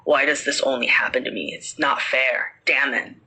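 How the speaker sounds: a hint of a bitter middle-aged man; deep, bitter voice. Parrot repeating the uncle's complaints, in a deep, bitter voice. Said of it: "bitter words in a middle-aged man's deep, low voice".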